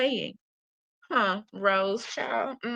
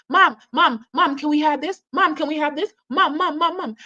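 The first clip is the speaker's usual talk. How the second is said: higher-pitched imitation of nagging children; rapid, repeated mock whining for Mom; mock screaming kids; 5 semitones higher, 3 dB louder than usual. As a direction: pester like kids begging their mom, without really screaming. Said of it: "her kids were screaming in the store".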